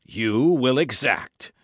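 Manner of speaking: "You will exact", slow, loud and weighted on every syllable; dwelling on each syllable. A narrator's reading. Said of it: "dwelling upon each syllable of the three words".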